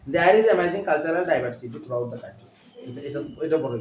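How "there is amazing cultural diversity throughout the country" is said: slow, deliberate English in a light Indian accent; teacher demoing a mild Indian accent to a student. Shown as a demonstration. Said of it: "আয় আমরা একটু Indian অ্যাকসেন্টে কথা বলি".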